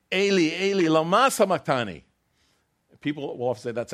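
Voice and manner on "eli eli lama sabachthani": loud, high anguished cry. Retold or imitated. Preacher voicing Jesus crying out on the cross, loud. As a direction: cry it out to heaven. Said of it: "he's crying out".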